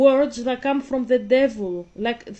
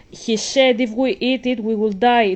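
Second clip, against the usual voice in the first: louder, earnest reply; Eve's answer; 6 dB louder than usual. Acted. Eve answering the serpent, louder and insistent. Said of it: "That's Eve saying".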